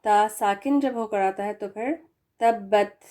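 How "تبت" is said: تبت ending in an audible puff of air; breathy final ta. Shown as a demonstration. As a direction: let air escape on the last ت of تبت. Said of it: "ہوا کی آواز آ رہی ہے آخر میں". (آخر میں ہوا کی آواز کے ساتھ)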